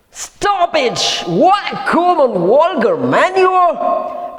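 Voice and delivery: high, slow, scornful outburst; indignant rebuke. Acted. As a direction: throw the insult at him. Wife rebukes husband.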